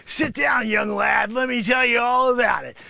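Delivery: brash sensei holding court; sensei character. Acted. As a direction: play the cocky karate teacher.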